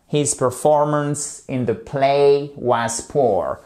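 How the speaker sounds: "His performance in the play was poor" again, slow, stress on "play"; slow model sentence, repeated. Shown as a demonstration. Teacher repeating the example so students can copy. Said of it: "une phrase un peu détournée".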